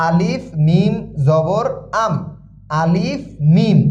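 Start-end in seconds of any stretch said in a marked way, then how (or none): 0.1-2.1 "আম" closed on a vowelless m; two letters joined. Shown as a demonstration. Teacher joining two letters like a hasanta, spelled-out "আলিফ মিম জবর আম". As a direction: spell "আলিফ মিম জবর", pause, then "আম" as one syllable. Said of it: "দুইটা হরফ একত্রে হসন্তের মতন".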